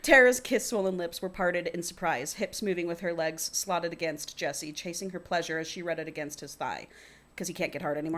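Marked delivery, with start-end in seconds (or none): 0.0-6.8 reading a novel aloud; story narration. A narrator's reading. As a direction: read it out as first-person fiction. Reads the book aloud.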